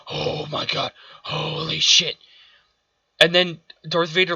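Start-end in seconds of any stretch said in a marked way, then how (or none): 0.1-2.2 mock Obi-Wan panic. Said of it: "he ignites his lightsaber and said".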